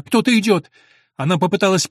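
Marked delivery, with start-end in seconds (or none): 0.0-0.7 higher, a little louder, startled; alarmed cry. A narrator's reading. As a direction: prisoner hears footsteps, cries out in alarm. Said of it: "вскричала она".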